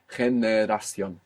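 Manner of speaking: Generación slowly, each vowel clear; measured, careful Generación, ge-ne-ra-ción; syllable by syllable. Shown as a demonstration. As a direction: spell out Generación in slow syllables, every vowel as written. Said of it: "take it syllable by syllable".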